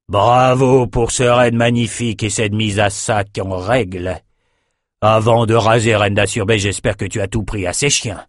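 gloating brute king; raider king. Acted. Raider king praising the raid, gloating. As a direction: savor the plunder.

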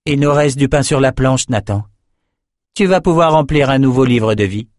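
Nicci character voice. Acted. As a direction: speak down to the messenger, icy and sure. Nicci addresses Nathan.

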